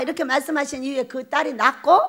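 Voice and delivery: usual speaking voice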